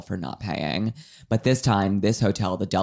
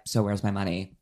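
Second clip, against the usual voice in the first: building demand; 7 semitones higher, 3 dB louder than usual. Retold or imitated. Rachel hounding Anna all day for her money, building to a shout.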